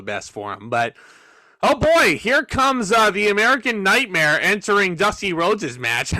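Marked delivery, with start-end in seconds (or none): 1.6-6.1 mock excitement, pitched high at the start; sarcastic big-entrance announcement. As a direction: hype the entrance with put-on wonder, starting high and easing down. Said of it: "I'm being very sarcastic".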